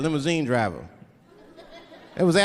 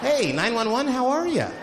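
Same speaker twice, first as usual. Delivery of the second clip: mock-casual caller, higher than usual and drawn out as it goes on; absurdly unhurried 911 call; cool and relaxed; 3 semitones higher, slower than usual. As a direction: report an emergency as if chatting breezily. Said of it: "cool and relaxed".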